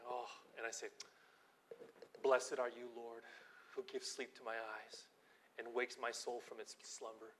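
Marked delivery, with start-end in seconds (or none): 2.2-7.3 soft, low morning prayer. Retold or imitated. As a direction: pray it gently and reverently. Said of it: "I just pray this beautiful prayer".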